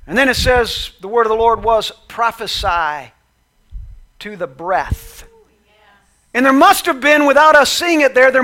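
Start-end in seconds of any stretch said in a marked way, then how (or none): 2.1-5.2 slow divine reply. Acted. God's reply, slow and calm.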